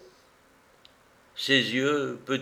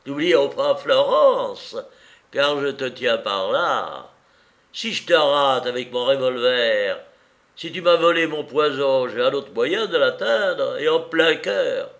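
gloating villain; 2 semitones higher, 5 dB louder than usual. Acted. Bandit threatens, gloating.

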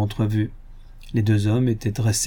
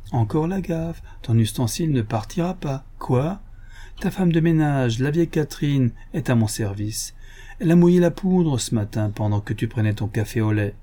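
lightly voiced gentleman thief, teasing; mock friendly, toying with him; sly Lupin; 4 semitones higher than usual. Lupin teases the inspector about the silk, lightly voiced.

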